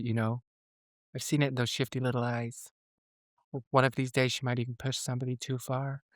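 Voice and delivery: soft, hushed and ominous; eerie quiet delivery. Retold or imitated. Friend quoting Kathy's sinister line, hushed and ominous. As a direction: murmur it like a creepy warning. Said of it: "the delivery of it when she's like".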